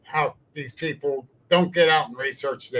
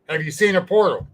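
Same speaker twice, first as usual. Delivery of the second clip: higher, louder pointed question; retold heated cross-examination; angry challenge; 4 semitones higher, 4 dB louder than usual. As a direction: press him with the question. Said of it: "now I'm mad".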